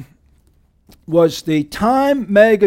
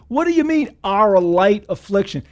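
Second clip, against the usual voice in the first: incredulous question. Retold or imitated. Mock disbelief at Paul's words.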